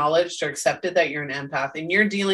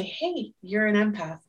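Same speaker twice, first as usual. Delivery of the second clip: nicely; 5 dB quieter than usual. Retold or imitated. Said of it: "very nicely say".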